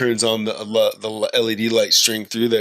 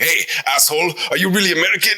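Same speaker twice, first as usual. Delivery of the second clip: imagined French challenger; 8 semitones higher, faster than usual. Retold or imitated. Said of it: "if a French guy's like".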